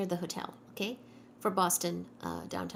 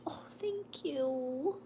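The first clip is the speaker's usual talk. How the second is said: soft whispered thanks; whispering; 4 semitones higher, 4 dB quieter, slower than usual. Real, not acted. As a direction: breathe the thanks out softly. Whispered thanks in live chat.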